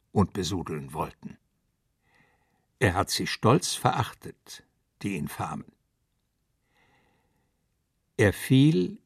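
measured, declaimed elegy with weighted pauses; solemn poem recital. Acted. Mister Heinz recites his Parnell elegy to the room, solemn declamation. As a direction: recite it line by line, phrases set apart.

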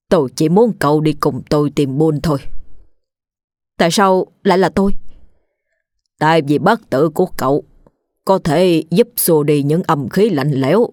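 measured shaman. Acted. Shaman explains to Biên.

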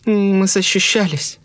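high, slow, shocked woman's voice; groping for words. A narrator's reading. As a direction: search slowly for the words. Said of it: "долго подбирала слова".

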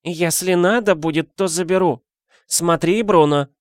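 high old woman voice, a hint of stern warning; old neighbour warning the husband, sternly. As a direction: warn him like a strict granny. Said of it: "сказала старушка с суровым видом".

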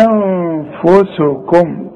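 أنفسكم very slow, the opening nasal n held; recited with ghunna. Shown as a demonstration. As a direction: draw out أنفسكم syllable by syllable. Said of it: "أمدها أربع حركات". (تلاوة «أنفسكم» ببطء مع إطالة الغنة)

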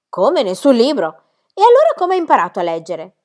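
very high, loud scandalised cry; rising in shock at each answer; appalled governess. Acted. Rottenmeier reacts to the child's age with rising outrage.

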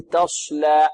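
تصلى with lips rounded on the sad; wrong rounded sad. Shown as a demonstration. Teacher imitates students' mistake, wrong rounded sad. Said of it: "يضم الشفتين في الصاد".

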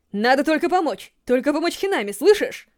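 Kaneki shouting to stop Toka; urgent shout. Acted. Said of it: "крикнул он".

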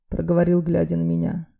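ordinary delivery

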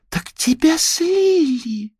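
high, slow gasp of amazement; astonished. A narrator's reading. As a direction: stretch it out in shock. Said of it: "поразилась Хлоя".

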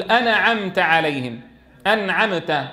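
أنعمت with a bounce on the resting nun and mim; mock a beginner bouncing the sukun in أنعمت; amused imitation of a beginner; wrong bounced nun. Shown as a demonstration. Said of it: "انظر كيف قلقل هذه السواكن".

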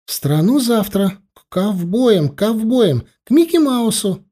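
put-on high-pitched kids clamouring over each other; eager children. Children tell dad where to go, eager and high. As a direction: pipe up like excited little children.

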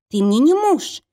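loud high cry of defiance; shouting. Acted. Woman shouting at the brute gripping her neck, loud high cry. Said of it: "кричала девушка".

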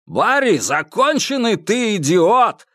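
high, slow, furious shout; angry yell. Acted. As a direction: scream abuse at a partner. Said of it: "орал слева один из охранников".

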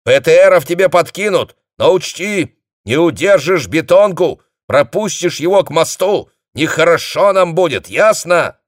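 high, loud stern warning; shouting orders. A narrator's reading. Dezhnev shouts a stern warning over the phone. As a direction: drive the warning home down the wire.

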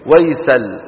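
ويسل said as one word, "Waysal"; clipped Turkish name. Shown as a demonstration. Teacher shows the Turkish form, name cut after lam. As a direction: end ويسل on the L borrowed from the article. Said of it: "أو جعلوها إيه؟".

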